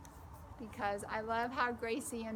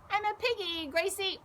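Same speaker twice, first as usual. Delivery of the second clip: put-on excited child; 8 semitones higher, 3 dB louder than usual. Child pretending to be pig.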